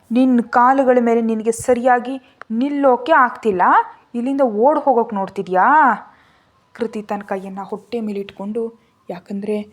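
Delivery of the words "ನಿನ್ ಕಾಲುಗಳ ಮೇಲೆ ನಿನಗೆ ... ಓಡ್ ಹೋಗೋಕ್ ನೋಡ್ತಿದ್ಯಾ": a raised, scolding voice, louder; angry. Acted. Rana rebukes the unsteady Kruti, angrily and loud. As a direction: snap at her for stumbling again. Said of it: "Rana ಕೋಪದಿಂದ ಅವಳ ಕಡೆ ನೋಡ್ತಾ ಅಂದ".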